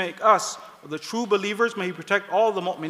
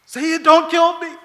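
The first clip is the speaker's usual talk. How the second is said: louder, slow plea for his life; old man begging the leader not to kill him, louder and slow; 9 semitones higher, 8 dB louder, slower than usual. Retold or imitated. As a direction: plead to the Sayyid, dragging it out. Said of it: "the guy starts begging".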